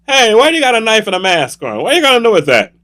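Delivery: high, worried challenge; mock-alarmed victim; alarmed questioning. Victim questions man with knife.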